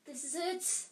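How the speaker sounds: high, despairing moan; panicky, rising moan. A narrator's reading. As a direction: wail it as if all is lost. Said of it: "Ron moaned".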